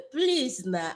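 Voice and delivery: playful begging. Pretend. Streamer begging viewers for likes, playful pleading. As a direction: beg playfully in a Nigerian voice. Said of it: "I'm begging in my Nigerian voice".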